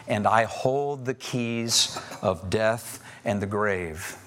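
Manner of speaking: slow, solemn voice of the risen Lord; voice of Jesus. Acted. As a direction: lay each word down slowly and gravely. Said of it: "laid his right hand on me and said".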